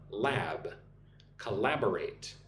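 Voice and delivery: "lab" set apart, then "Collaborate" stressed on LAB; stress on second syllable. Shown as a demonstration. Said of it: "Put the emphasis on the second syllable".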